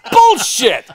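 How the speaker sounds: a hammed-up furious yell; angry shout. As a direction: fling the word out like you're hurling cards. Throwing cards at dealer.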